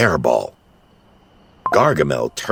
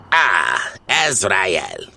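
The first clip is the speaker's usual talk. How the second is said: moan; much slower than usual. Acted. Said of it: "Gargamel said with a moan".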